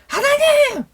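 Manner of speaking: high-pitched, hammed-up exasperated cry to God; 짜증내며 따짐. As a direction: call out in mock outrage, way up high. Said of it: "짜증내는 사람이 있다". (과장되게 짜증 섞인 고음으로 부르짖기)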